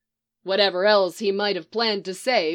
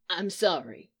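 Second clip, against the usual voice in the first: a quiet, lower, worn-out apology; hoarse croak; 3 semitones lower, 5 dB quieter than usual. Acted. Leonard apologising to his old teammates, hoarse croak. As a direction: croak it as if cried out for days. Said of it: "Leonard croaked, his voice hoarse".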